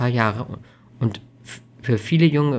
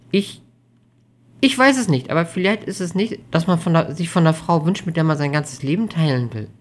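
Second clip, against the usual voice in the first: put-on higher, hesitant young woman; tentative, raised-pitch uncertainty; somewhat unsure; 6 semitones higher, 4 dB louder than usual. A narrator's reading. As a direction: start haltingly, then venture a question. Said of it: "fragte Amelie etwas unsicher".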